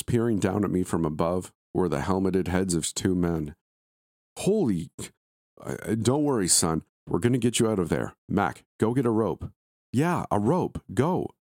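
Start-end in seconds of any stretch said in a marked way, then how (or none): 4.4-9.5 put-on higher, hurried call down to a trapped boy; a hint of a shocked workman reassuring; lightly voiced rescuer, fast and urgent; startled rescuer. Rescuer calls down into pit. 9.9-11.3 higher, urgent quick reply; a hint of a second workman hurrying off; lightly voiced partner, pitched up; second rescuer.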